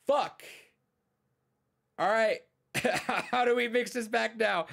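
high, strained panic; high-pitched scrambling to fix it; mock-panicked writers.

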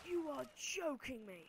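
slow, loud incredulous; loud disbelief. Real, not acted. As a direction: shout in disbelief.

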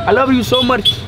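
mock Indian accent, lightly done; a playful stab at an Indian accent. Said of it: "I perfected the Indian accent".

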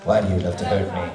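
lightly voiced wounded hero; mock hurt in character; Link voice. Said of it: "but what about you?".

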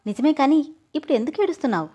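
light annoyed retort; irritated. Acted. Husband to crying wife, mildly irritated. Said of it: "విసుగ్గా".

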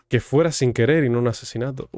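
ordinary delivery

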